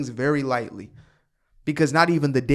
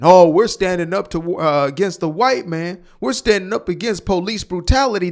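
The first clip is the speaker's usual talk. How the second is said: louder, sarcastic imitation of protesters; hammed-up protester voice, louder; mock protester; 5 dB louder than usual. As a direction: parody their excuse with a loud scoff. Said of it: "How is that protesting?".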